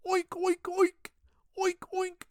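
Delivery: high-pitched imitation pig oinks; pig oinking. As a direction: oink like a pig on command. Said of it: "I want you to oink like a pig".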